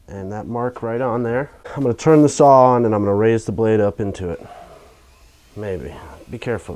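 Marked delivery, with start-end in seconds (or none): 1.7-4.4 loud over the whirring saw; shouting over table saw. Real, not acted. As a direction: raise the voice above machine noise. Speaks while the table saw runs.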